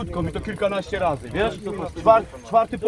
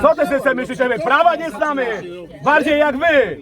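real angry raised voice; angry shout; 3 semitones higher than usual. Real, not acted. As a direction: shout back that you know the law. Heated argument with police.

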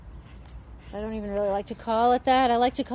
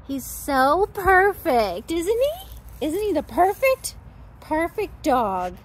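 gushing; 4 semitones higher, 4 dB louder than usual. Real, not acted. Gushing over the gentle dog.

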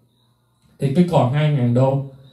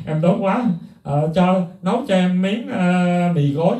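mock whine; 3 semitones higher, slower than usual. Mocking celebrity asking for food.

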